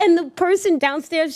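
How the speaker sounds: normal talking voice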